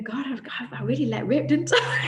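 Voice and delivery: retelling her laughing line; a light laugh through "didn't I"; mock sheepish laugh. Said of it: "she was really laughing, going".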